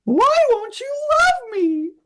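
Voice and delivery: high squeaky cartoon whine. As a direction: plead like a cartoon sweetheart. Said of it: "Cartoon voices".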